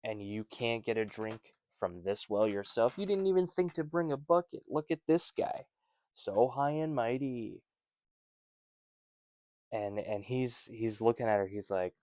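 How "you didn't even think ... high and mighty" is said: voicing her scorn, pitched up; mock him like a smug local; snarky mockery. Mocking the woman's snark.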